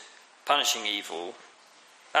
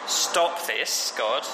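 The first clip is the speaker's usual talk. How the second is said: Job crying out to God; much slower than usual. Acted. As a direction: call out to God to make it stop. Job's cry to God, voiced.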